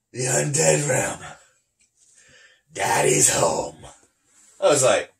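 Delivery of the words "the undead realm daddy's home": slow, drawn-out villain pronouncement; lightly imitated sinister homecoming; screamed-then-chuckling villain. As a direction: announce it like a creepy villain, slowly. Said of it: "he chuckles. He goes".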